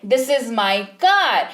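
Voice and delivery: this is my car, each word drawn out very slowly; very slow pronunciation. Shown as a demonstration. Teacher carefully modelling English, very slow. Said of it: "आपको उच्चारण वाले शब्द पर ध्यान देना है".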